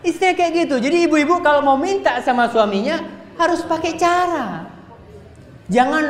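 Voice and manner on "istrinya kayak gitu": admiring exclamation. Acted. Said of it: "admiring exclamation".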